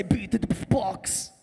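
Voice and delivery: slow beat box. Shown as a demonstration. Coaching the crowd word by word, slowly. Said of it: "Now say beat".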